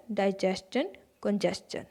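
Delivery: careful, softening demo of डाइजेशन, कंजेशन with chun endings; correct pronunciation. Shown as a demonstration. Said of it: "सही उच्चारण क्या है?".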